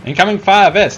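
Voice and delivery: loud, high warning shout; shouted callout. Real, not acted. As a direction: yell the warning to the squad. Callout under fire.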